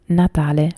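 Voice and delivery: "Natale" set apart, in Italian; Italian pronunciation. Shown as a demonstration. Streamer explaining the word for Christmas, Italian pronunciation. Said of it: "which is Christmas".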